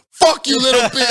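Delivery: high, very loud taunt; shouted trash talk. Retold or imitated. Gamer re-enacting his taunting of killed rivals, shouting. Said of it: "me talking shit".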